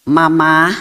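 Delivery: drawn-out, lightly wheedling call; coaxing child. Retold or imitated. Child recording a plea to Mama, mildly coaxing. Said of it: "ya, bisa merayu".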